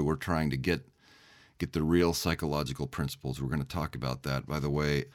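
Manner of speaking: low gravelly voice from a cold; hoarse, rough voice with a cold. Real, not acted. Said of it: "I do have some kind of cold or something today. I apologize for my low, gravelly voice".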